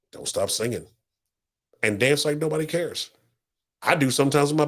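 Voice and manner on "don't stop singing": a quiet, gentle repeat; soft echo. Real, not acted. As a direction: let it fall to a soft reminder. Soft echo of the previous line.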